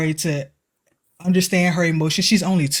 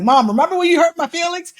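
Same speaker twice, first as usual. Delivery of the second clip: higher, lightly voiced child bringing it up; a hint of a little girl reminding mom; imitating toddler; 12 semitones higher, 4 dB louder than usual. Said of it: "I'm like".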